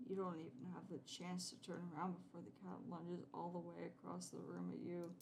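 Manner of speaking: even, measured game narration; story narration. Acted. Player reads the text to viewers, narrating calmly. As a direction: read the scene like a storyteller.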